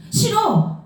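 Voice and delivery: high, sharp protest; a boy's high cry of no; childish refusal. Acted. Boy refusing to let his dog go, high protesting cry.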